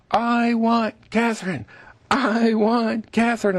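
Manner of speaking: high, slow pleading chant of flowers; chorus of roses. Pretend. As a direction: pitch it up like a crowd of roses calling. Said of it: "all the roses in the garden are going".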